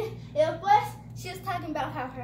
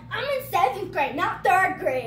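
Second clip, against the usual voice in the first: indignant retort; 5 dB louder than usual. Retold or imitated. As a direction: correct them with offended emphasis. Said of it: "And I was like".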